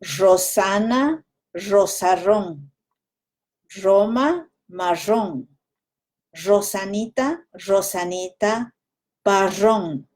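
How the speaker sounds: Ecuadorian Andes R. Shown as a demonstration. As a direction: Ecuadorian highland R. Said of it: "the Ecuadorian Andes way of doing it is".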